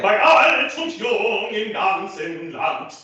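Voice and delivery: slow, high, loud line with "Land" ending in T; "alt" and "Land" crisply finished with percussive T; percussive T demo. Shown as a demonstration. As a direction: project "Bei alt und jung im ganzen Land", popping each final T. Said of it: "that percussive T sound".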